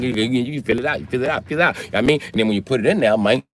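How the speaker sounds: put-on rambling, run-together Louisiana accent; Louisiana man explaining. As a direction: play a Louisiana how-to guy, words tumbling together. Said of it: "it's some motherfucker from Louisiana".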